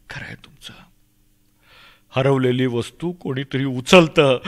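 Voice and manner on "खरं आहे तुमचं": whispered resignation; hushed, defeated aside; dejected whisper. Acted. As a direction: give in, barely audible. Dejected acceptance after pleading.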